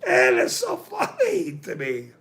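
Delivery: high, laughing through the words. Real, not acted. Telling the chat how funny it is, laughing high through it. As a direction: giggle the line out.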